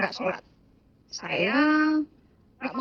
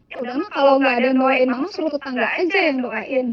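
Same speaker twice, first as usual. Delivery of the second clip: retold offhand dismissal; faster than usual. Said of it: "Saya kan orangnya se-, se-, eh, se-, se-, gampang menggampangkan sesuatu".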